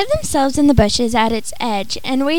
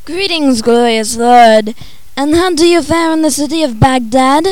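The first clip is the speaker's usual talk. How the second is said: fawning sorcerer; 5 dB louder than usual. Acted. Sorcerer fawns over Omar.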